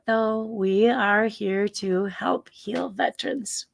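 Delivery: slow, whispered slogan drop; cheesy delivery. Pretend. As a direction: sneak the plug in with a wink. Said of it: "You see what I did there?".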